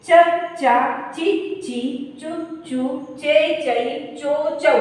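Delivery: slow, syllable by syllable drill; barakhadi recitation. Shown as a demonstration. Teacher reciting the ch syllables for students. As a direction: say each ch syllable apart and clearly. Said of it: "अब आता है च".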